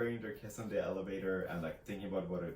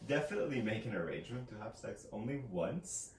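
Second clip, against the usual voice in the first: dry mock advice, tongue in cheek; deadpan sarcasm selling a bad plan; sarcastic; 4 semitones higher than usual. Real, not acted. Friend mocking workplace romance, sarcastic. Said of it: "Your sarcasm".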